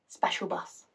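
almost mouthed, under the breath; hushed euphemism. Acted. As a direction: whisper it hesitantly. Hesitant, awkward euphemism for disability.

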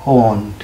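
on said as a short, clear on; suffix on said clearly. Shown as a demonstration. Teacher names the ketone suffix, on said clearly. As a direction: give the ketone suffix on plainly. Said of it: "উচ্চারণ হবে কি?".

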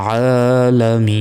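slow recitation, long-held "মিন" in আলামিন; দীর্ঘ মদ্দ. Shown as a demonstration. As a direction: draw out the last vowel of আলামিন for three counts before the closing n. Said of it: "তাহলে তিন second টান হবে". (আলামিন-এর শেষে তিন second টান)

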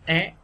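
"É" lifted with a rising sắc tone. Shown as a demonstration. Teacher repeats the stressed sound for learners, rising tone. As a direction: push "É" upward from start to end. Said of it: "đọc thêm dấu sắc là é".

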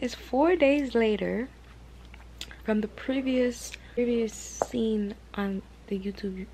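slow, failing, half-whispered voice; voice giving out. Real, not acted. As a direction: voice cracking into a whisper. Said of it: "Why can't I talk?".

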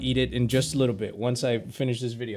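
emotional, choked-up softness; holding back tears. Real, not acted. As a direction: speak quietly, fighting tears. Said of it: "I'm trying not to cry".

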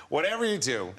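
put-on a poorly done American accent; unconvincing American accent; bad American accent. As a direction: attempt American and miss slightly. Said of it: "okay, not a very good American".

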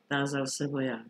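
usual speaking voice

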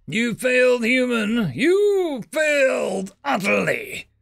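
high, slow alien shout; shrill-pitched alien victor shouting; gloating alien. Acted. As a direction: crow over the pinned human. Alien commander gloats over prisoner.

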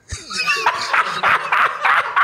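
high squealing wheeze of laughter; long high-pitched wheezy laugh; helpless laughter. Real, not acted. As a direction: crack up completely. Cracks up at grandmother remark.

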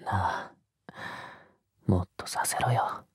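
soft, low hushed demand; whisper. Acted. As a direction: breathe the demand into their ear.

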